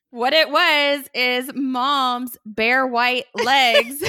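loud, drawn-out punchline through laughter; real laughing delivery. Real, not acted. Sister revealing the white jeans were legs, laughing. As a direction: laugh while stretching out the reveal.

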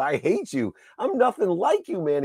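high, loud, indignant retort; retold angry outburst. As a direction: re-enact a heated rejection. Retold angry quarrel with father.

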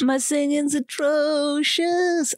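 high, slow, grand mock-operatic voice; repeating an insult as a haughty diva; mock diva singer. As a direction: drawl it like a pompous singer. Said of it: "pretend we're really good singers".

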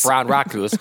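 flat, choppy synthetic voice; glitching robot. Shown as a demonstration. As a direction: speak each syllable like a broken machine. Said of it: "You sound like a malfunctioning speak and spell".

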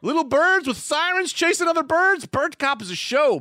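laughing. Real, not acted. Giddy stoned tweet reading.

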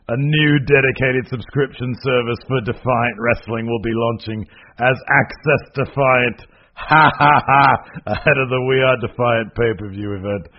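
loud, hammed-up British announcer with a villain's ha-ha-ha; mock British accent. Co-host reads promotion's statement, hammed-up British accent. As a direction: proclaim it grandly in a put-on British accent. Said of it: "gonna do this in a British accent".

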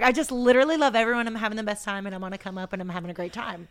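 mimicked happy gush, loud then dropping away; fast-talking, energetic. Imitating her blissed-out friend on the come up, energetic babble. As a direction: burst out loving everyone, rattling on. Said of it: "so fast talking and energetic".

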